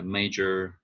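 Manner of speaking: MAJor, first syllable stressed. Shown as a demonstration. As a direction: lean on the MA of major. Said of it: "the emphasis changed".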